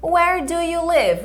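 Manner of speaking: slow, clear teacher model; slow repeat-after-me. Shown as a demonstration. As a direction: model it slowly for the class.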